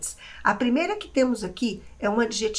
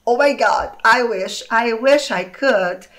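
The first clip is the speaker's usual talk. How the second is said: mock British; 6 dB louder, slower than usual. Shown as a demonstration. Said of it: "eu acho lindo o britânico falando".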